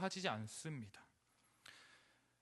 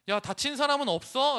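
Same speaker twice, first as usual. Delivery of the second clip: high, loud caring call; urgent concern; 8 semitones higher, 9 dB louder than usual. Pretend. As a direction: call out checking everyone is safe. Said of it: "라고 물어보셨어야". (다급하게 걱정하며 외치듯)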